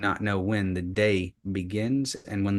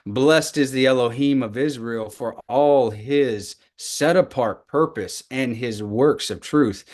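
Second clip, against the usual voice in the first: emphatic scripture reading; 3 dB louder than usual. Shown as a demonstration. Teacher reading the War Scroll blessings aloud, emphatic proclaiming. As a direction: proclaim it, leaning on each holy name. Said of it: "whenever I emphasize the words".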